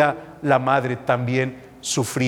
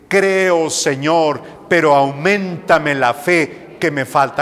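prayerful. Shown as a demonstration. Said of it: "repitan continuamente".

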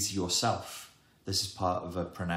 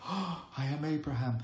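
Abraham; 8 semitones higher than usual. Acted. Messages down from on high.

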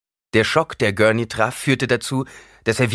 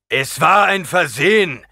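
weary reply; 10 semitones higher, 8 dB louder than usual. A narrator's reading. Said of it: "erwiderte Gurney matt".

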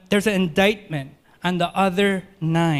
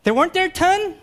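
much higher, louder insistence; Jesus doing the math, much higher and insistent; emphatic question; 11 semitones higher, 4 dB louder than usual. Acted. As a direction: press the question hard. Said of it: "it's all the more emphatic".

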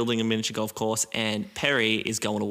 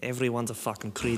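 Schwarzenegger impression; 4 dB quieter than usual. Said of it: "That was Schwarzenegger at the end there".

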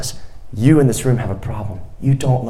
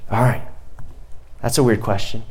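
ordinary talk, nothing marked

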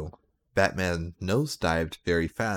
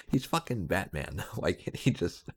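laughing. Real, not acted. Reader breaks down reading fanfic.

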